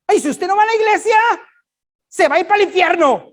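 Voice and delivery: high, loud, mocking voice of a pushy churchgoer; mocking church lady. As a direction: ham up a preachy church lady threatening hell. Preacher mocking legalistic church lady. (imitando a una hermana legalista, aguda y fuerte)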